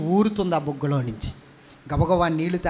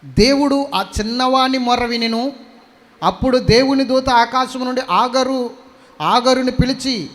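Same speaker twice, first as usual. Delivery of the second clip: solemn scripture reading; 2 semitones higher, 7 dB louder than usual. Acted. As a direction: proclaim each verse to the hall. Bible reading.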